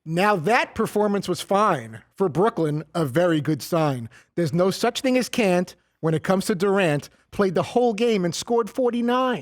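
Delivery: measured, sing-song verse reading; limerick recital. Acted. Coworker reads his basketball limerick on air, measured recital. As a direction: recite it like a deliberate little poem.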